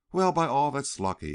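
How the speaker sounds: loud, gleeful exclaim. A narrator's reading. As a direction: crow it like a lucky find. Rough man greets her.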